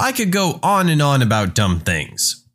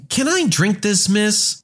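high-pitched pupil voice; higher, questioning schoolkid; student asking; 5 semitones higher than usual. Acted. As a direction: ask teacher in a lightly voiced kid voice. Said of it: "I'm regularly asked".

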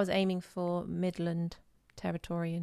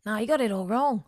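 put-on Australian accent correction; imitated Australian girl; 2 semitones higher, 4 dB louder than usual. Australian girl correcting the bad imitation, Australian accent. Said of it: "an Australian girl".

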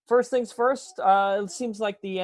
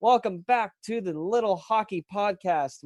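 podcast host intro; 5 semitones higher than usual. Acted. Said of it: "we will do our proper intro".

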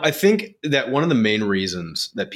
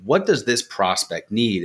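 curious; slower than usual. Retold or imitated. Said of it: "being curious and saying".

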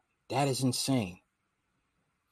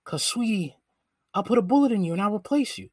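a slightly higher, quick villain threat, lightly voiced; Die Hard villain voice; 6 semitones higher than usual. Streamer imitating a Die Hard villain threatening his woman, lightly voiced. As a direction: purr a mock-sweet threat like a movie villain. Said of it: "a voice like this".

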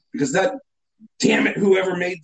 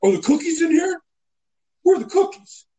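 higher, mock yell for the cookies; retold yelling; 9 semitones higher than usual. Drive-thru kid calling to coworkers, higher mock yell. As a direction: call out to coworkers, half-shouting. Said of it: "starts yelling and, and asking people".

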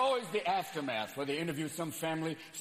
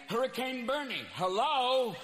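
put-on high, cranky old man whine; old retiree hurricane; 7 semitones higher than usual. A cranky Miami retiree hurricane complaining. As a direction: kvetch like a Florida retiree.

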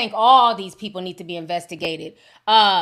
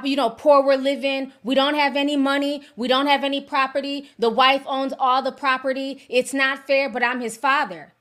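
mocking whiny voice; 4 semitones higher than usual. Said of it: "He starts talking about".

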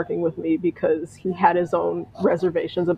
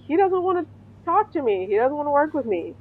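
a hint of teary pleading, pitched much higher; mildly choked-up complaint to the boss; lightly voiced crying, high and wobbly; retold crying; 7 semitones higher than usual. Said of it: "I start crying".

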